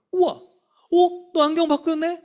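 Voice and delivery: high, loud burst of amazement; big wowed praise, acted out; admiring teacher. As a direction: gush over a child's new look, drawing out the wow. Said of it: "그 선생님이 얘기하는 거예요".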